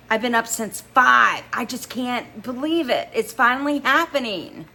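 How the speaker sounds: high, loud giddy gush; can't contain the joy; excited. A narrator's reading. Girlfriend tells him she's been up since five, giddy. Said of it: "I screamed into the phone".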